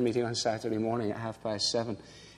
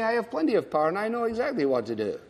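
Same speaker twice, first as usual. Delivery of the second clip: quick, eager know-it-all, pitched higher; brash young intern; 6 semitones higher, faster than usual. Retold or imitated. Preacher mocking the young intern's boast, quick and bright. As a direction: rattle it off like a cocky youngster. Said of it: "When you're young, you say".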